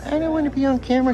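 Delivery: high, fast and loud protest; shrill protest. Real, not acted. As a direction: blurts it out in a panic. Employee protests filming.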